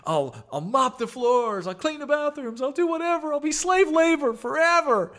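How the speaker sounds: put-on very high, whiny kid plea; begging, pleading. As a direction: beg Mom desperately in a squeaky child voice. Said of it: "I beg it and I'm pleading".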